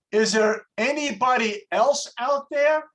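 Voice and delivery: mock plea to anyone listening; doubtful man calling out. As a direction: call out for a second opinion. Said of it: "the guy thinks and says".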